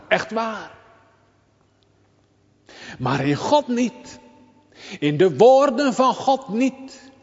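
high, loud, urgent pulpit voice; preaching at full force. Acted. Preacher urging the congregation, loud and high. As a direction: press it home to the congregation.

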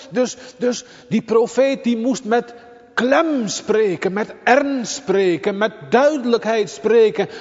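high, loud, urgent pulpit voice; preaching at full force. Acted. Preacher urging the congregation, loud and high. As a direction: press it home to the congregation.

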